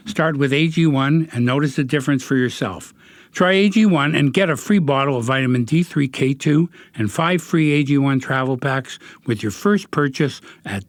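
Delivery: steady sponsor read. Acted. Host reads sponsor copy for listeners, ad read.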